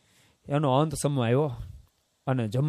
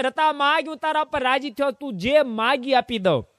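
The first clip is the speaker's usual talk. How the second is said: benevolent God; 10 semitones higher than usual. Acted. God voiced granting a boon.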